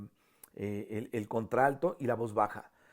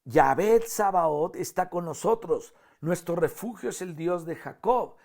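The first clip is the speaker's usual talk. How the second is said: mildly raised soprano-part reading; parte de sopranos; 3 semitones higher, 4 dB louder than usual. Shown as a demonstration. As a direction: lift the line a little, proclaiming it for the sopranos. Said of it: "la, las sopranos". (voz de soprano, algo elevada)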